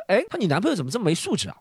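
quick, mildly snide imitation; mock snide remark. Short-haired rival sniping at the boyfriend, mildly snide. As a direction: toss it out as a sly dig. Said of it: "说了一句阴阳怪气的话".

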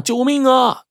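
high, drawn-out wail for help; cry for help. A narrator's reading. Crippled Bagou left alone calls out, wailing for help. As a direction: wail it out high without extra volume. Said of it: "大喊呐".

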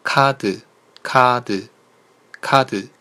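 카드 said carefully, each repeat set apart; teacher drilling 카드 in isolation; Korean pronunciation demo. Shown as a demonstration. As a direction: model 카드 for learners with a Korean tune. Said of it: "这个时候我们读".

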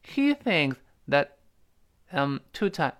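slow "He thinks that" with "that" reduced and its t held back; teacher's measured model of weak "that"; weak-form demo. Shown as a demonstration. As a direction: model it slowly with a short, unreleased "that". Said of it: "所以你听到是这么一个声音".

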